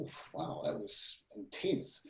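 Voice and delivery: hushed and drained, as if the feeling has just passed; breathless hush. Retold or imitated. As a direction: whisper it out, breath almost gone. Overwhelmed after sudden emotional rush.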